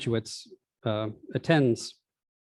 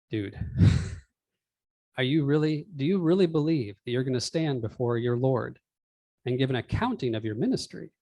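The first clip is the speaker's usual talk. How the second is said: put-on old man rant. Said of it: "an old man rant in the middle".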